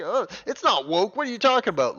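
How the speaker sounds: high, loud mock indignation; whiny-pitched parody of a fan in denial; mocking fan protest. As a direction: imitate defensive fans protesting. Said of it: "anti-woke crowd going".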